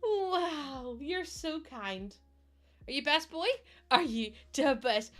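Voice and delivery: high, cooing pet voice; sweet high-pitched dog talk. Real, not acted.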